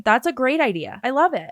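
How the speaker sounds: dry sarcastic praise. Acted. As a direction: say it with heavy sarcasm. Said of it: "Please note the sarcasm".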